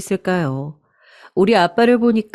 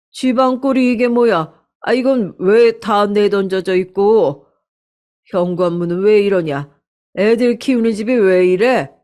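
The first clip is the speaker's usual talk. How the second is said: scolding father. Acted. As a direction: demand answers about the messy house. 친정 아빠가 어지러진 집 꾸짖음. (어지러진 집을 보고 꾸짖는 아빠, 약간 큰 목소리)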